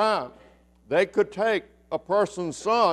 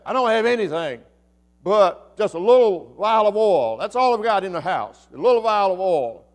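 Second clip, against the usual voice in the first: upset widow; 3 dB louder than usual. Acted. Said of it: "contention in her voice".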